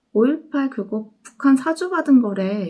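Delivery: retold confident claim. Student looking straight at the speaker, retold confident claim. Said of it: "제 눈을 똑바로 바라보면서".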